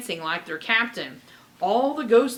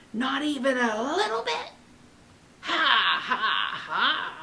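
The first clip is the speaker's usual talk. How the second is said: mocking laugh; 3 semitones higher than usual. Pirate ghost taunts and laughs.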